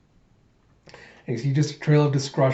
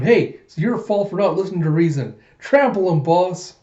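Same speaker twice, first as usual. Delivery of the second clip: higher, louder egging-on; scolding; 5 semitones higher, 4 dB louder than usual. Acted. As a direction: call out a rebuke, then urge the boss on. Koyomi scolds crowd, urges boss on.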